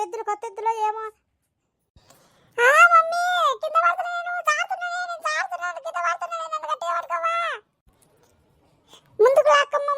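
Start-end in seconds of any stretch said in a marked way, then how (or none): 2.6-7.3 high, pleading cry to mommy; frightened child. Acted. Child slipping off the cart calling to her mother, scared. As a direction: beg to be held tight.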